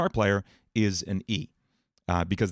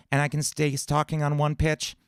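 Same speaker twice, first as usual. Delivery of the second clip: high-larynx cartoon voice, a bit higher; SpongeBob voice; 5 semitones higher than usual. Shown as a demonstration. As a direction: lift the larynx and keep the note. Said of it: "move my larynx up like this".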